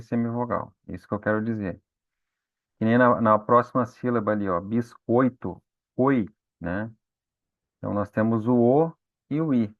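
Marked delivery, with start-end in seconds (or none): 4.6-5.6 biscoito drawn out slowly; slow syllable demo. Shown as a demonstration. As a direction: say biscoito slowly so the class hears each syllable. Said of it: "quando você fala a sílaba".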